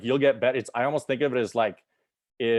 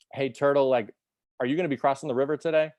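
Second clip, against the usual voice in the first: higher, brighter call to the turtle, then fast; spider calling out; 4 semitones higher than usual. Acted. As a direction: hail the turtle from the riverbank.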